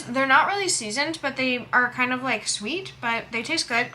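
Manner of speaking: talking with mouth full; chewing while talking. Real, not acted. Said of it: "I'll try not to talk with my mouth full".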